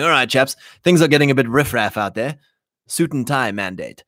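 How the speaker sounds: mock upper-class English, lightly done; upper-class English accent. Spanish leader announcing a dress mandate, lightly upper-class English. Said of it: "as my upper class English accent for a Spaniard".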